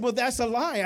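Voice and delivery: retold objection. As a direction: act out a friend objecting. Voices friend objecting in retold argument.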